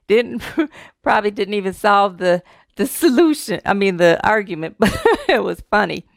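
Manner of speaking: real chuckles between words; talking through leftover giggles; amused laughing. Real, not acted. Still amused by own joke.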